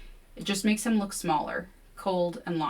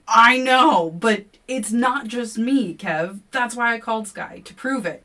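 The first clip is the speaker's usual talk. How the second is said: loud, higher pleading insistence; heated defense; 6 semitones higher, 10 dB louder than usual. A narrator's reading. Narrator insisting to Kevin, loud and heated. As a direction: push back hard and loud.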